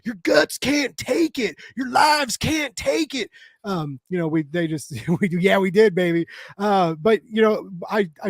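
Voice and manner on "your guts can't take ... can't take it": higher, shouted mock lecture from friends; mock scolding crowd. Friends warning him about junk food, hammed-up shouting. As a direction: ham up everyone warning the over-thirty-fives. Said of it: "everybody was like".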